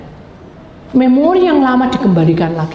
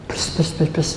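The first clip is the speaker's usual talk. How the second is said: soft, voiceless vehicle whooshes; imitated whooshing; 5 semitones lower, 6 dB quieter than usual. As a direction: puff out quick passing-car noises. (menirukan suara kendaraan lewat)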